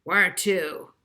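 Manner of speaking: put-on a light Brooklyn accent, brisk; a hint of a Brooklyn cab attendant. A narrator's reading. Cab rank attendant asks Molly, Brooklyn accent. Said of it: "with a thick Brooklyn accent".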